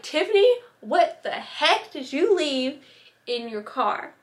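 lightly voiced scolding mom; imitating mom. Vlogger imitating own mom about her car, mock scolding.

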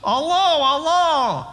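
sly wolf voice. Acted. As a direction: play the wolf sweetly luring the sheep. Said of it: "like this one here".

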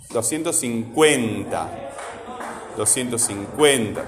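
"cincuenta" with a lengthened CUEN; stress on CUEN. Shown as a demonstration. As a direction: stretch the CUEN of "cincuenta", then fall. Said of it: "¿Cuál es la sílaba que suena fuerte?".

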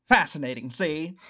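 put-on lightly done old movie gangster-newsreel voice; playful hint of an old Hollywood accent; mock transatlantic. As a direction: toss it off like a 1940s film star. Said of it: "I was picturing more like".

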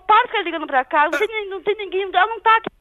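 loud, high exasperated plea; real fed-up protest, pitched high; exasperated pleading. Real, not acted. Woman pleads with repeat caller.

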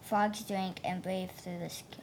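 flat, even robot reading. Real, not acted. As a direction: read it like a robot, monotone. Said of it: "Why do you read like a robot?".

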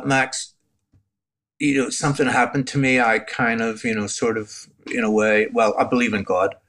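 sheepish, halting confession to a friend; mildly re-enacted embarrassed admission; retold embarrassment. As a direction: hedge and stall, then own up awkwardly. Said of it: "in a really embarrassed way".

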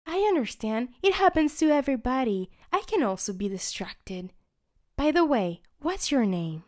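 high, friendly toothbrush; Chubby voice. Acted. Chubby asking the candy girl her name. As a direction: chat warmly and curiously.

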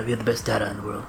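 a hint of a boasting Trump; Trump impression. To his friend, a mild Trump boast impression. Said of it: "President Trump".

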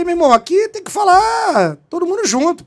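commanding officer voice; firm shout. Retold or imitated. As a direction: lay down the rule to the room. Telling suspect to speak openly.

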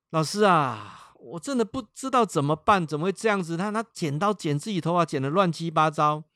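desperate plea. Retold or imitated. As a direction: beg for help, at a loss.

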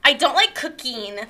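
lightly voiced whiny victim, a hint of a valley girl; self-pitying influencer character. A self-pitying podcast guest complains to the host, lightly whiny. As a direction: mope about the haters, a little put-upon. Plays the character Lyre Lynn.

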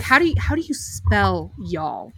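hushed, unvoiced whisper of the question. Cousin whispering how to spell it. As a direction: whisper it like a secret. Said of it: "she'd be like".

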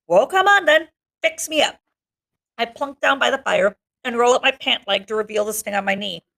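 reading a novel aloud; steady read-aloud to a class; story narration. Acted.

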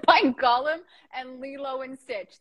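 a hint of a raspy creature; lightly voiced gremlin, slow; Stitch-Gollum voice.

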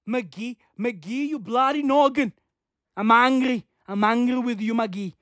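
hammed-up fake Irish scolding; botched Irish accent. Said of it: "What accent is that?".

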